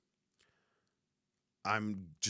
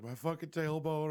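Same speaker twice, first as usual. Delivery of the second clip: imitating wife; 8 semitones higher than usual. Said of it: "she's like".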